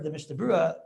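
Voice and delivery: "Mishabura" set apart and firmly stressed; deliberate emphasis on "Mishabura". Real, not acted. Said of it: "I stress the word".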